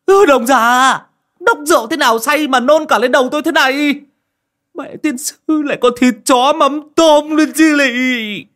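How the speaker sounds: put-on a man shouting at the drunk who threw up on his head, furious yell. A narrator's reading. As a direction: bellow at the drunk old man who vomited on you. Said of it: "Bị cậu Tẩy quát".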